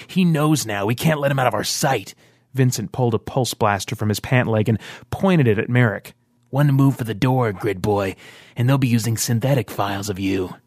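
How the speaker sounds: a hint of a cold, menacing fighter; lightly voiced threat. Vince holding a blaster on Merrick, a touch menacing.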